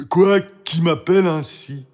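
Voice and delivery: high-pitched questioning dog voice; dog character. A narrator's reading. Guard dog Toutou asks who is calling, questioning.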